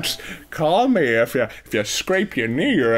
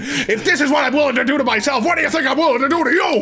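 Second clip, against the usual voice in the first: high manic cackling threat; unhinged, laughing menace; crazy granny voice; 10 semitones higher than usual. Acted. Grandma threatening, knife out.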